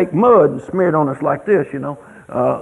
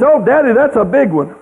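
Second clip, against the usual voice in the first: put-on awed little boy; 6 semitones higher, 3 dB louder than usual. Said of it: "He says".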